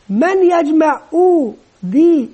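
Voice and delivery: teacher quizzing class. Shown as a demonstration. Teacher asks class to blend.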